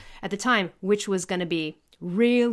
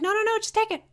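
high-pitched, waving off payment; retold generous brush-off, pitched up; insistent refusal; 12 semitones higher than usual. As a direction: insist on the gift, acting the neighbor. Acts neighbor refusing payment.

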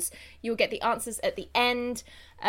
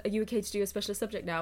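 quizmaster voice; 5 dB quieter, much faster than usual. Retold or imitated. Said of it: "every time he's like".

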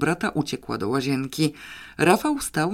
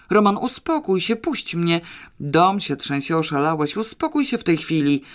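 raised, urgent scolding; breathless scolding shout; 3 semitones higher than usual. Acted. Wife fights off her dancing husband, raised breathless scold. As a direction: shout him down while struggling free. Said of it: "krzyczała zdyszana pani Krystyna".

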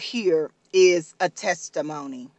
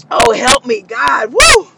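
overcome with emotion; 3 dB louder than usual. Real, not acted. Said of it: "I've just been emotional".

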